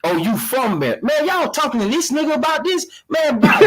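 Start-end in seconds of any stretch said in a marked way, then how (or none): 1.0-3.6 laughing shout. Real, not acted. Mocking the Baltimore caller to the panel, high laughing shout.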